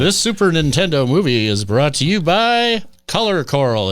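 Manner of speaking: lively ad-read lead-in; sponsor read. Pretend. Podcast host plugging a cleaning product, upbeat sponsor read. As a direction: pitch the sponsor, voice lifted.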